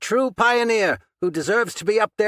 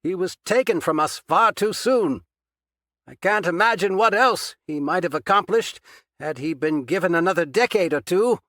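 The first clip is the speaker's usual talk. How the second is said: strained; 9 semitones higher, 5 dB louder than usual. A narrator's reading. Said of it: "Patchen's reply sounded strained".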